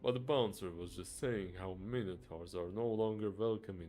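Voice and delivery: a guest reporting the bouncer to the owner; loud complaint. Acted.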